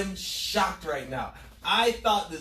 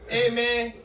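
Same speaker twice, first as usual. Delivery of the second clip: put-on higher, louder Hispanic-accented street slang; Carol City Hispanic accent; 5 semitones higher, 5 dB louder than usual. Carol City kid greeting friends, in a Hispanic accent. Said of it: "very shitty Hispanic accents".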